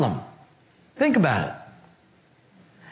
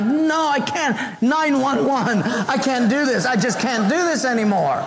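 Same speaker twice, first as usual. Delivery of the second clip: higher mock meltdown, half laughing; mock panic; 3 semitones higher than usual. Hearing of the mother-in-law's visit, mock-panicked meltdown. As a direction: ham up a panicky breakdown. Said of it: "you just go ballistic".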